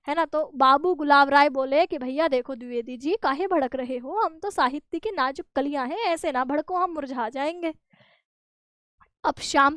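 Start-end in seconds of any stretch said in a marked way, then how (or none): 2.0-7.7 softer, delicate plea. Retold or imitated. Gulab Rai soothing angry Dwivedi, soft and delicate. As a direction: coo it like a fragile bud. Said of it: "गुलाब की तरह ... खिले रहते हैं".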